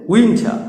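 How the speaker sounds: উইন্টার as "win-tha"; উইন্টার with aspirated t; correct pronunciation. Shown as a demonstration. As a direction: drop the final r in উইন্টার. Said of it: "সঠিক উচ্চারণগুলো দেখো".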